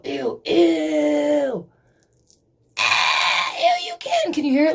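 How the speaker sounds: ew shrieked high; disgusted squeal. Real, not acted. Peeling the sticker off her face, squealing in disgust.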